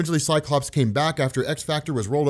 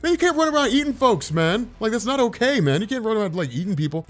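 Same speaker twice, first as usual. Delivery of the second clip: exasperated scolding; 6 semitones higher than usual. Retold or imitated. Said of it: "And it's like".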